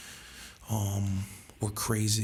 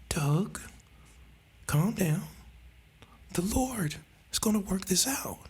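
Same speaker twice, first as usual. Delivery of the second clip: low talker; 9 semitones higher than usual. Retold or imitated. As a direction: hush it like a tiny low talker. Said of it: "He's a low talker".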